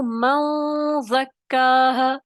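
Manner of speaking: मन ज़क्काहा slow, marked as incorrect; मन ज़क्काहा read slowly as the wrong version; wrong reading shown. Shown as a demonstration. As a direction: show the mistake: slow मन ज़क्काहा. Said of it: "तो ये गलत है".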